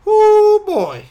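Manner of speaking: high, drawn-out ooh; awed exclamation. Real, not acted. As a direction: whoop it out, loud and high. Marvelling at the beer's power.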